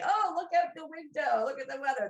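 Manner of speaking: breezy, high and loud chit-chat; mock casual chatter. Mocking what a sub can't just say to her. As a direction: toss it off like idle small talk. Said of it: "they can't just say".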